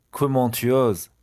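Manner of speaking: each syllable drawn out slowly for learners; slow model phrase. Shown as a demonstration. French teacher to students, slow model read. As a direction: say it slowly and clearly.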